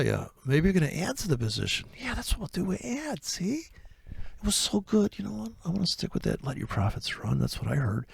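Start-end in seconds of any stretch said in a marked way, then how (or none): 2.0-6.4 high, smug and pleased with himself; a lightly voiced cocky trader. Character keeps gloating, high.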